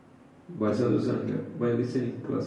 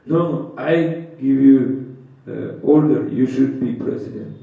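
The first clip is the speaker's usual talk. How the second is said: commanding order; 8 dB louder than usual. Retold or imitated. Guru orders disciple in story.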